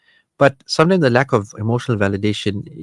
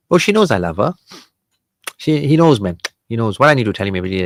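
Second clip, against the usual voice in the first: dismissive spouse; 4 dB louder, faster than usual. Retold or imitated. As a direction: brush it off as if it's obvious. Mocking spouse who won't say it.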